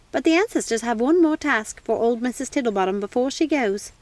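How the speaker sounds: lightly voiced old lady; old housekeeper. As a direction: play the warm old woman. Housekeeper speaks.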